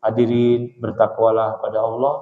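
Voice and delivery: low, monotone read-aloud sermon; lifeless reading intonation. Shown as a demonstration. Preacher showing drowsy worshippers a poor sermon, read-aloud monotone. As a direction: recite it like reading, with no preacher's conviction. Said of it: "intonasinya jangan kayak baca".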